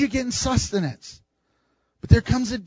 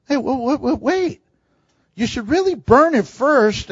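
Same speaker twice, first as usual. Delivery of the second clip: high, hurried stop-right-there call; a priest halting the worshipper; mock urgent priest; 5 semitones higher than usual. Priest stops the worshipper, mock urgent high call.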